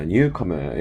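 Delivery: "newcomer" British-style, final R dropped; British pronunciation. Shown as a demonstration. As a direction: say "newcomer" ending in an open "uh", British accent. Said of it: "영국식 발음이라 R 발음 죽었어요".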